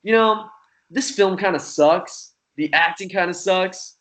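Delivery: lightly mocking his own smug younger self; arrogant. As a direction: brush it all off like a know-it-all. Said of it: "very arrogantly, I was like".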